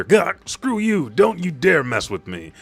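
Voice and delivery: high, loud, strained protest; acted furious squawk; mock outrage. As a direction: lash out as a squashed villain. Acting out an enraged reviving demon.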